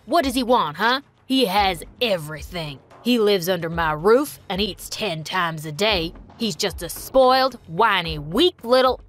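angry dad. Acted. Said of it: "he got really mad".

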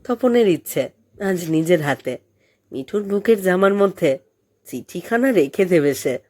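ordinary delivery, nothing marked

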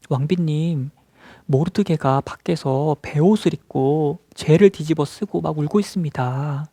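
slow, drawn-out servant's report. Acted. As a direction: lightly act a servant addressing the queen. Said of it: "신하들이 이 소식을 듣고 에스더에게 말했겠죠". (왕비께 천천히 아뢰는 신하 말투)

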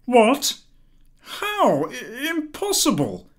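very high, stunned disbelief; husband hearing the necklace is lost; bewildered shock. A narrator's reading. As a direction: gasp out each word in shock.

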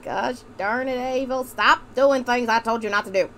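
mildly scolding Southern mother; put-on Southern accent. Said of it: "This accent is really killing me".

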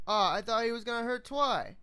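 Applejack-style country twang; country accent. Acted.

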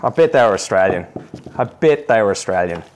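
deadpan mock-proud aside; dry sarcasm, leaning on bet; sarcastic. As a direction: say it knowingly, tongue in cheek. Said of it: "Note the sarcasm".

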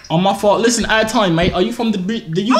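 put-on British accent. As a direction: chat like a British mate. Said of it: "I love your accent".

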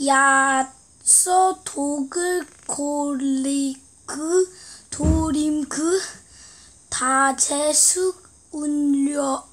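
reading Korean text backwards syllable by syllable; halting, careful backward reading; backwards speech. Shown as a demonstration. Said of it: "두 쪽만 거꾸로 읽겠습니다".

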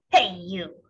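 bossy little bug calling out; grouchy ladybug. A narrator's reading. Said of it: "said the grouchy ladybug".

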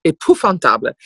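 lightly mock German accent; German accent with v turned to f; dreadful German accent. Shown as a demonstration. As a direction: harden it into a comic German accent. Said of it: "je pars tout d'un coup sur un accent allemand".

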